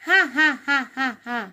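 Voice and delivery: read-out ha-ha laugh in even beats; acted laugh. Rabbit teases the dreaming squirrel, acted laugh. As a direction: laugh in separate, measured syllables.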